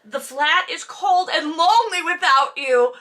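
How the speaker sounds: quoting through laughter; giggling mock-lonely quote; laughing while quoting. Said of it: "the last thing he says is".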